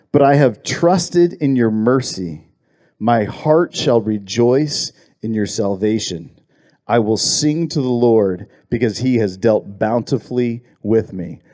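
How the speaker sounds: unhurried psalm read to a congregation; scripture reading. Acted. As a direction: read the verse out with weight on each phrase. Reads the psalm verse aloud.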